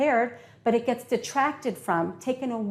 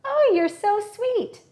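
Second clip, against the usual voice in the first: high, drawn-out sweet gushing; loud, slow, high-pitched "so sweet"; mismatched sweet talk; 11 semitones higher, 4 dB louder, slower than usual. Shown as a demonstration. Speaker showing words that clash with angry body language, gushing sweetly. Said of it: "I might be angry".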